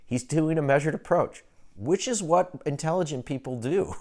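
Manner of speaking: normal talking voice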